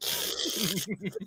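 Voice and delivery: drawn-out slurping sip; long noisy sip. Shown as a demonstration. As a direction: mime a very long, slow slurp of water. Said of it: "like I'm sipping Niagara Falls".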